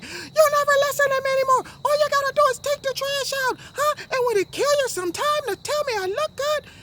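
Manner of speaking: very high, loud falsetto nagging; screaming wife impression. Wife nagging the referee on the couch, mock screaming. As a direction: shriek complaints right in his ear, hammed-up. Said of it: "his wife is right in his ear like".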